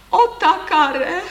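high, loud, drawn-out wail; wailing cry. A narrator's reading. Lady caught by her husband, wailing. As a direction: wail the name in dismay. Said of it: "zaúpěla dáma".

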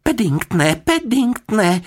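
high, loud dismayed cry, last name drawn out; unhappy calling. A narrator's reading. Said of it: "nešťastně se na něj podívala". (nešťastné, hlasité zvolání)

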